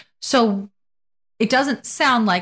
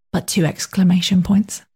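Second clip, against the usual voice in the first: put-on British accent, whispered. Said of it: "I'd like to read it in a British dialect".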